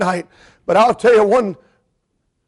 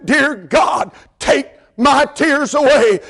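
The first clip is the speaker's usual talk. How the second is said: retold pleading prayer; 4 semitones higher, slower than usual. Retold shouted prayer to God.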